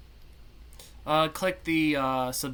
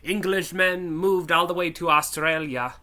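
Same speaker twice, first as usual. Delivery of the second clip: a louder, hammed-up Australian accent; Australian accent attempt; 4 dB louder than usual. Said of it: "I can't really do an Australian accent".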